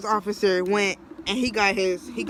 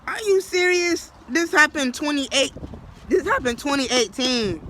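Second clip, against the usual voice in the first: disbelief; 4 semitones higher than usual. Retold or imitated. Protesting old charge.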